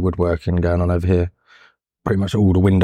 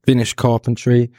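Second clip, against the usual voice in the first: louder; 5 semitones higher than usual. Real, not acted. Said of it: "Talk a little louder".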